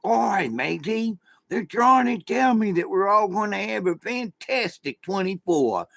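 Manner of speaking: jokey put-on pirate accent; mock pirate accent. Shown as a demonstration. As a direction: play a cartoon pirate accent for a laugh. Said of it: "without having to use a, an accent".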